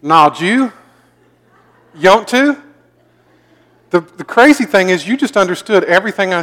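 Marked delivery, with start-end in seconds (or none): 0.0-2.6 "Nah, Jew" and "Yont to" as mashed questions, rising; Southern run-together words. Shown as a demonstration. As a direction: squash "did you" into "Jew" and "you want to" into "Yont to". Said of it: "We tend to run things together".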